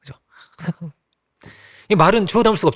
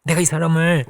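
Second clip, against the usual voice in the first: soft motherly plea; slower than usual. Acted. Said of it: "그렇게 쓰는 거예요".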